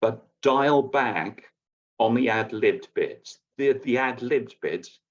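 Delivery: ordinary delivery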